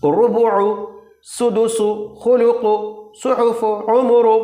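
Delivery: each case ending vowel said long and full, रुबुउ with a long u; Quran-style recitation of the words; drawn-out Arabic vowels. Shown as a demonstration. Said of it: "देखिए".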